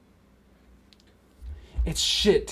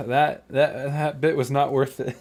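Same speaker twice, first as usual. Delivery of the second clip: words broken by laughter; laughing; 3 semitones higher than usual. Real, not acted. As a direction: laugh through the stammer. Laughing at own challenge.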